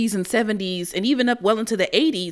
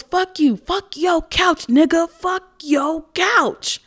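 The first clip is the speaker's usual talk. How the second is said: high, slow mock drunken yell; drunken screaming; 8 semitones higher, slower than usual. Drunk colleague yelling a comedy quote at a police officer, mock screaming. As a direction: imitate a drunk quoting a TV sketch at high pitch. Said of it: "And she starts screaming".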